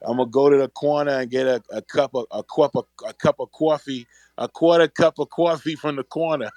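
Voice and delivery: put-on a light white New York accent, "coffee" as "kwoffee". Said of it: "It's that white one".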